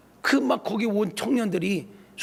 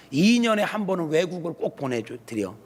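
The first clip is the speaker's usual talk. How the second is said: ordinary talk, nothing marked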